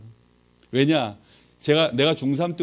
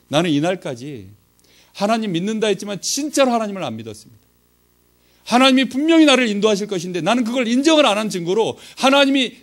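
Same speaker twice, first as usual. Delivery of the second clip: retold confession building in force; earnest confession; 3 semitones higher, 4 dB louder than usual. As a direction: confess earnestly, voice growing louder. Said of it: "진지하게 말씀을 드렸어요".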